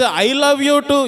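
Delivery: slow, drawn-out "I love you too"; hammed-up wife answering her husband; mock wife's reply. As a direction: stretch it out sweetly in mockery. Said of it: "ఈమె అంటది".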